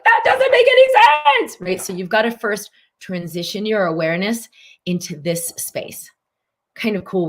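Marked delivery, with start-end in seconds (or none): 0.0-1.6 much higher, louder mock protest; skeptical listener. Coach voicing the doubting viewer, high mock protest. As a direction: scoff at the idea in a put-on voice. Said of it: "You're like".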